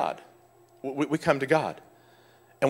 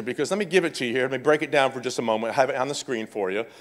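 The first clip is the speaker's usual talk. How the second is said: fast, softer explanatory aside; brisk lowered aside; quick aside; 3 semitones lower, 5 dB quieter, much faster than usual. Real, not acted. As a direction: rattle it off quietly to the room.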